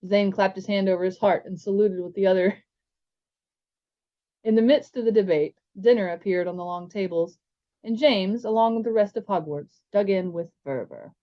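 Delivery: even read-aloud storytelling; story narration. A narrator's reading. Reading a chapter aloud to listeners, steady narration.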